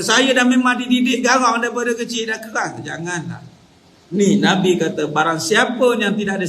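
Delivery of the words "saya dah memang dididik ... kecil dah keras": higher-pitched mock boast; proud boast. People boasting of a strict upbringing, mock-proud. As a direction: imitate someone proud of being harsh. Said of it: "banggalah dengan kata".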